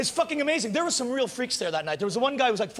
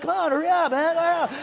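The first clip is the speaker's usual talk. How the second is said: louder, higher mock impatience; impatient hurrying; 5 semitones higher, 3 dB louder than usual. Partygoer waiting for the spliff, pushing him to hurry. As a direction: hurry the guy along, half joking.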